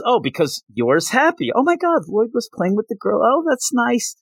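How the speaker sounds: high-pitched retold freak-out; flustered, high mock outburst. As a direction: imitate a girl freaking out, pitch jumping up. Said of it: "Becky freaks out and says".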